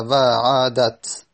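و عادت spoken slowly and deliberately; slow example demo. Shown as a demonstration. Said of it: "همونطوری که مثال زدیم".

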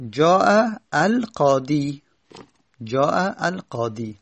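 جاء القاضی said slowly, long aa in جاء, final یا plain i; slow Arabic example. Shown as a demonstration. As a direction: carefully read Arabic phrase, with القاضی ending on a long i.

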